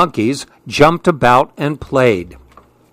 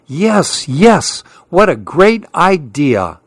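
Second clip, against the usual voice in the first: eager agreement; 3 semitones higher, slower than usual. Acted. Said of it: "shouted all the others".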